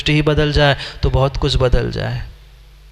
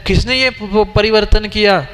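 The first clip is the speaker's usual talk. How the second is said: higher and stammering on प- प- परिवर्तन; shocked, tripping over the word; startled question; 4 semitones higher than usual. Retold or imitated. A householder startled to find his sutra changed, stammering. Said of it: "वो कहता है".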